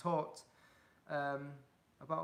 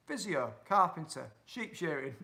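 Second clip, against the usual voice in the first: a touch of broad Yorkshire; proper Yorkshire accent; 3 semitones higher, 6 dB louder than usual. Real, not acted. Streamer reading out job suggestions, in a proper Yorkshire accent. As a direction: list the jobs with a Yorkshire accent. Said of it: "That does sound proper Yorkshire".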